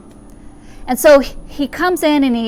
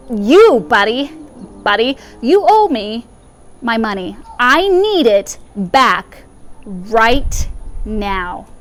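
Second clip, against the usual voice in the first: loud demanding payback; mild mock anger at a neighbor; 3 dB louder, slower than usual. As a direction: bang on the door and demand it. Creditor demanding his money back.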